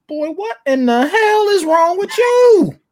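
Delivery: high, loud, drawn-out dad holler; mad dad tone. Retold or imitated. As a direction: act out an exasperated father blowing up. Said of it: "And then I get the tone".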